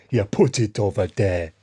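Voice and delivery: lightly mimicked African accent; mock the man's African accent a little; imitated African accent. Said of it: "And he goes".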